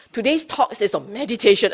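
lightly hyped-up event notice; mock eager announcement. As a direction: announce it like a crowd-pleaser. Mock announcement that draws a crowd.

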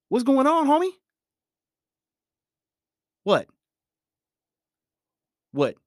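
high, loud mock outburst at a friend; acted angry friend. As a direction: snap back, hammed-up hurt and mad. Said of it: "I'm just acting".

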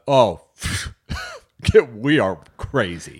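slow laughing mock boast; mock hyped. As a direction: say it like a proud wild kid. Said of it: "they have this attitude of".

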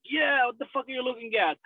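lightly voiced drunk tough guy; a hint of a drunk gangster; drunk Scarface. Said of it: "he just stands drunk and he's like".

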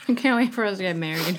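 laughing. Real, not acted. Laughing at the ants joke.

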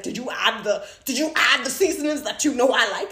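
mock nagging check-up. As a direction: pester him like a fussy wife. Acting out a nagging wife.

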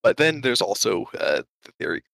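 short of breath, gasping between words. Real, not acted. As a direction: talk while still catching your breath. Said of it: "sorry, I need to catch my breath".

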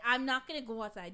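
acted loud retort; loud refusal. Wife in bed refuses to go outside, loud refusal. Acted quarrel, calling back to husband.

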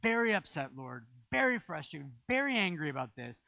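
loud, pushing complaint to God; a forceful venting prayer. Retold or imitated. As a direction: press God hard with the frustration. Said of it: "my prayers are really forceful".

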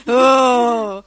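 loud, long "ohh"; drawn-out "oh". Pretend. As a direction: let out one big, drawn-out oh. Crowd-style sympathetic reaction.

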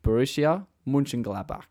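plain Australian pronunciation; Australian accent. Shown as a demonstration. Host having a go at the club's name in an Australian accent. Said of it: "say it in my Australian accent".

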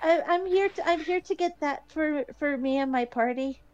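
halting, repeating shy speech. Acted. Shy girl asking for food for her party, halting. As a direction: stammer through it bashfully. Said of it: "like, really shyly".

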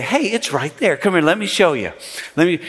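friendly, helpful lift on hey; welcoming. Retold or imitated. Usher greeting a lost visitor, warm and helpful. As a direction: gladly offer to walk them there. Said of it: "or we can say".

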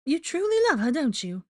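high put-on woman's voice; high, loud character question; probing reporter. A narrator's reading. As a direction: press him in a high voice. Rita probes Draco's feelings.

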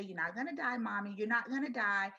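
softly imitated comforting; hushed, tender retold promise; retold child's reassurance. Small son rubbing mom's bald head, softly reassuring. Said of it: "This is a four-year-old".

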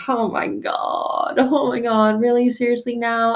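mock family-argument dismay; exasperated. Acts out family arguing.

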